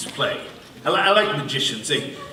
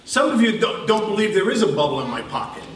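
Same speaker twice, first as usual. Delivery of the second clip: magician impression; 4 semitones higher than usual. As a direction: play a smug stage magician teasing a doubting crowd. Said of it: "my impression of a, a magic performer, magician".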